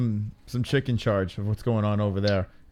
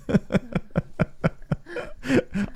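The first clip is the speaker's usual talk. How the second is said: high breathy laugh; 12 semitones higher, 5 dB quieter than usual. Real, not acted. Laughing at crude joke.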